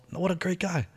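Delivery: retold admiring remark. Retelling his grateful reaction.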